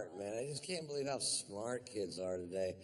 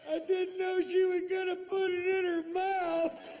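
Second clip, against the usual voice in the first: put-on kid friend. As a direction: squeal it like a shocked young boy. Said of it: "and he went".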